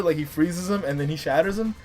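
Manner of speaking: ordinary talk, nothing marked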